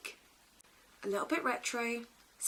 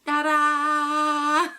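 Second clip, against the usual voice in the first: ta-da; 6 semitones higher, 8 dB louder than usual. Real, not acted. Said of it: "punchline flourish".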